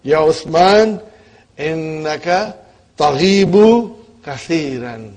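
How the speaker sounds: slow, deliberate address to Uthman; lightly voiced teacher scolding. Shown as a demonstration. Teacher in the example sentence scolding absent student, slow and deliberate. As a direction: call Uthman out slowly by name. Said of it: "Mudarris is directing his attention to Uthman".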